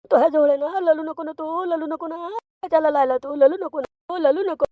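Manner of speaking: put-on father babbling to hush the crying child; baby talk. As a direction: coo ललू instead of रडू to the baby.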